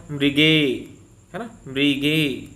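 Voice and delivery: मृगे with the final ए drawn out; teacher highlighting the ए in मृगे; stressing the ए. Shown as a demonstration. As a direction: hold the ए sound in मृगे. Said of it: "ए का उच्चारण".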